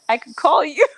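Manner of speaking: whispered punchline. Real, not acted. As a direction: whisper the joke. Joking aside to the boss.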